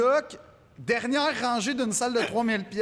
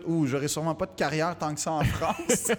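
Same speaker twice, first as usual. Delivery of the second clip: amused, laughing through the words; rueful realisation; 3 semitones lower than usual. Retold or imitated. Comic tells host of doubts about a career in France, laughing. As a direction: let a chuckle leak into the thought.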